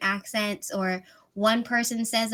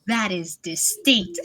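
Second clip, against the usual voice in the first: laughing; 6 semitones higher, 3 dB louder, slower than usual. Real, not acted. Laughing about Argentinian accent.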